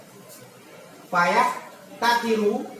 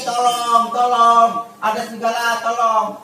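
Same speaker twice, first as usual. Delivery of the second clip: loud mock yell of wolf, raised pitch; retold shout for help; 4 semitones higher, 7 dB louder than usual. Shepherd boy yells again to fool the villagers, loud mock shout. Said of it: "Habis itu dia teriak lagi".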